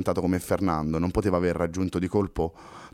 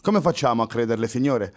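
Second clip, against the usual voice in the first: firm officer, higher and demanding; asserting policeman; 4 semitones higher than usual. Acted. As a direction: insist on an ID like a wary cop. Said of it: "asserì il poliziotto".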